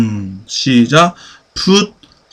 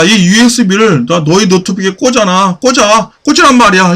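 higher-pitched mock command, mounting insistence; acted insistent order; 6 semitones higher, faster than usual. Teacher acting out an order to plug in a USB, insistently. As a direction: press the order harder each time.

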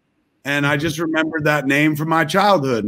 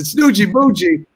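put-on delighted kid; 5 semitones higher, 5 dB louder than usual. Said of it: "I said".

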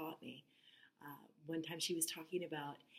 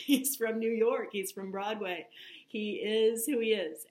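laughing fondly; 4 semitones higher, 8 dB louder than usual. Real, not acted. Laughing explanation of Jimmy's loudness.

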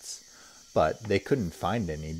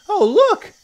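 much higher, louder delighted shout; children's cry; 14 dB louder than usual. Acted. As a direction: kids spotting something new. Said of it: "they cried".

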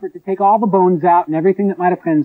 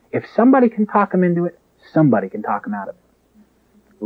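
put-on Irish accent. Mother quoting her own saying to the elder, Irish accent. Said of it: "in her Irish accent".

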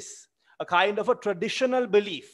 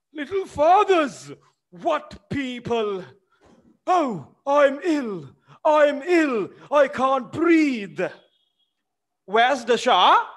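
high, loud wailing cry for help; panicked old servant; 8 semitones higher, 7 dB louder, slower than usual. Acted. The frightened old servant crying out for help and water. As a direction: wail that you cannot breathe.

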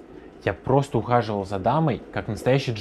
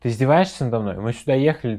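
громкий упрёк в ссоре; с напором, выговаривая претензию; возмущение; 2 semitones higher, 5 dB louder, faster than usual. Acted. Ссора пары, он возмущён. (возмущённо)

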